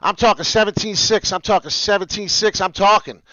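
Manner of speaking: loud, excited yelling at the viewers; real hype yell over the chart. Real, not acted. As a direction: get fired up and shout it out. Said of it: "as I'm yelling".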